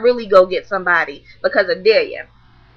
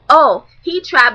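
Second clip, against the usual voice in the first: slow, louder drawn-out mock girl; mocking girl's voice; 3 semitones higher, 5 dB louder, slower than usual. Mimicking the girl complaining, slow and louder. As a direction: stretch it out like a dramatic girl. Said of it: "So now she's like".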